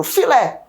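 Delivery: Filé with "lé" pushed; "Filé", final syllable stressed; stress on last syllable. Shown as a demonstration. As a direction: land firmly on the "lé" of Filé. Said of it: "é pronunciada com mais força".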